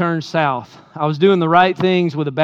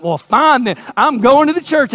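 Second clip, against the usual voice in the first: retold angry snap; 7 semitones higher, 3 dB louder than usual. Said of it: "And I slammed the door".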